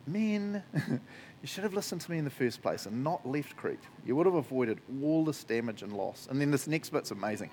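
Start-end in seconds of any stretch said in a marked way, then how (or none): 0.0-6.3 gently reproaching, softer; kind, like he loves them; nice voice. Shown as a demonstration. Paul addresses the crew in a nice voice. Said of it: "I'll read this in a nice voice".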